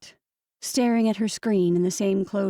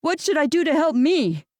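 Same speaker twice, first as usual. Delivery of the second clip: higher, louder, strained plea; hard, strained words; 7 semitones higher, 4 dB louder than usual. A narrator's reading. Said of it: "The words came out hard".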